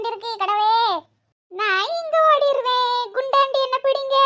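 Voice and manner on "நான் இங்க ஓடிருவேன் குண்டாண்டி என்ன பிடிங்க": put-on playful, drawn-out kid taunt; five-year-old child. Child daring auntie to catch them, childlike. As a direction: dare them like a small child. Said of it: "அஞ்சு வயசு குழந்தைதான்".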